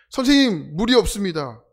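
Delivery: calling out a grievance to the teacher; whiny complaint. Retold or imitated. Griping student calls to the teacher at camp, mock whine. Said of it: "불평, 불만 친구들이".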